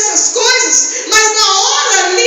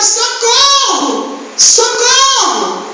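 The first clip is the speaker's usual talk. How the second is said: hammed-up cry for help; 3 semitones higher than usual. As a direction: wail like a man about to drown. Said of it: "continuou gritando".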